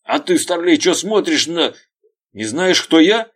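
high, loud outraged shout; furious yell. Acted. Veryovkin yells at the lieutenant, enraged. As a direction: scream down at the junior officer.

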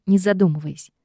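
ordinary delivery

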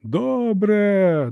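high, slow shouted добре впорались; shouts from the crowd. A narrator's reading. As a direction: echo it like a rowdy crowd. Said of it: "долинули вигуки".

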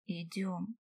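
soft low word; quietly. A narrator's reading. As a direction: gently tell her to come, softly. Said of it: "тихо сказал эльф".

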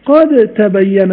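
قد تبين with د gone into ت; slow قد تبين, doubled ت; full merge. Shown as a demonstration. Teacher showing the right reading. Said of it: "أقول قد تا".

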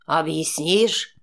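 low, slow mocking question with a short laugh; scoffing chuckle. A narrator's reading. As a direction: laugh off her excuse. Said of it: "хохотнул он". (низко, с насмешливым смешком)

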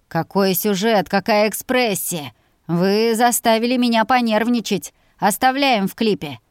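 loud, delighted director; excited praise. Acted. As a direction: cheer the take with excitement.

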